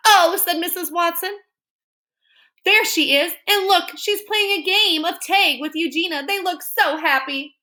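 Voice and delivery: high cheerful lady; bright sing-song of a happy lady; Mrs Watson voice. Acted. Mrs Watson voiced in read-aloud.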